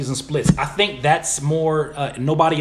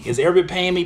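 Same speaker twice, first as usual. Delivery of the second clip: higher, incredulous repeat of a question; mock offended; 5 semitones higher than usual. Streamer repeating a viewer's nosy question, mock offended. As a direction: throw the question back in mock indignation.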